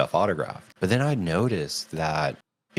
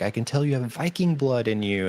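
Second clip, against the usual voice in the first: imitating the actor; 7 semitones higher than usual. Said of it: "He was like".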